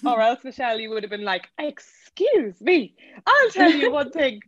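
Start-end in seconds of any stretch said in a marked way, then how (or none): 1.6-4.4 high, drawn-out comic outrage; mock indignation. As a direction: act hugely affronted, stretching the first words. Imitates Michelle's indignant comeback.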